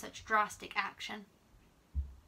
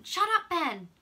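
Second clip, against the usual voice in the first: sharp, louder and higher; cried out; 8 semitones higher, 6 dB louder than usual. Acted. Charlie hushing Ben so he can hear, crying out. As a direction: cut him off with a cry. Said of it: "cried Charlie".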